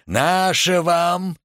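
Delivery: slow, high, sugary greeting; sweet cry. A narrator's reading. Dyrkin fawns over the pale youth, slow high sweet greeting. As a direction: fawn over him, drawing it out sweetly. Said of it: "вскричал он сладко".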